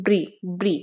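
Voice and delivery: ব্রি as a short isolated beat; stressed syllable alone. Shown as a demonstration. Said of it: "first সিলেবলের মধ্যেই stress".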